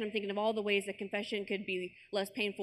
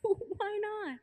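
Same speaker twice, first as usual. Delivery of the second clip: higher, laughing through the question; 10 semitones higher than usual. Real, not acted. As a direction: laugh it out in protest. Laughing defence of joke idea.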